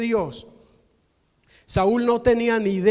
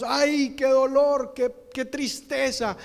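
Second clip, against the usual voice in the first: mock wailing. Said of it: "lloraban en alta voz".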